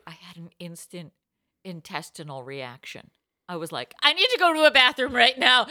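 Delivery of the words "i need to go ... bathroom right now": high, loud, urgent outburst; hammed-up retold panic; comic panic. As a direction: blurt it out as a mock emergency. Acts out her panicked reaction.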